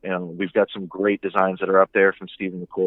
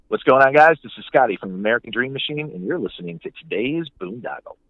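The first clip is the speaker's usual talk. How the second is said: high upbeat greeting easing down to usual; radio promo ID; 3 semitones higher than usual. Shown as a demonstration. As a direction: open big on the greeting, then settle into the show's name. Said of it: "you mind doing a promo I D".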